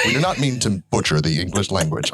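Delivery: formal disclaimer, pitched a little down; mock disclaimer. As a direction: deliver a mock-official apology.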